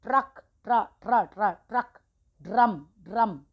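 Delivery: ट्र and ड्र repeated loud and crisp, ट्रक and ड्रम punched; loud practice drill of ट्र and ड्र. Shown as a demonstration. Teacher leads loud practice drill for children. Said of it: "इसको बोल बोल के practice करना".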